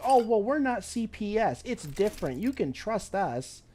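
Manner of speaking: high mocking caseworker voice, slowing at the end; hammed-up reassuring caseworker; mocking old caseworker. Old caseworker promising trust, high mocking imitation. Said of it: "She kept telling us".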